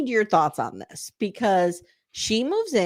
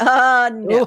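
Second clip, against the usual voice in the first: put-on loud, blunt, flat delivery; 4 semitones higher, 7 dB louder than usual. Retelling how she answered his plan to move in: imitating her refusing. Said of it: "And she's like".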